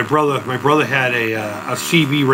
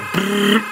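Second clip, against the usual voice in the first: machine gun noise; 5 semitones higher than usual. Shown as a demonstration. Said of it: "Almost sounds like a machine gun".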